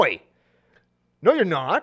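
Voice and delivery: put-on Australian accent. Acting out an imagined dad answering his son, in an australian accent. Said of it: "you started with the accent and then you went away from it".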